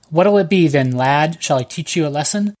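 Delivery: a hint of a Cockney thug; lightly voiced Cockney tough, menacing; light Cockney accent. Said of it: "with a horrible Cockney accent".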